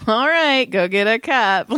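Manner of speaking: retold snide go-ahead; lightly scornful, starting high; total asshole. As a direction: act out a mildly mocking consent. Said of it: "Like, just total asshole".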